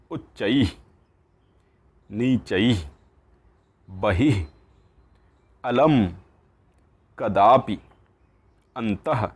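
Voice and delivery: each Sanskrit word said slowly and distinctly, like "उपरि" and "अधः"; clear pronunciation. Shown as a demonstration. Teacher modelling each word for students to repeat, clearly. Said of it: "मैं स्पष्ट तरीके से उच्चारण करने की कोशिश करता हूँ".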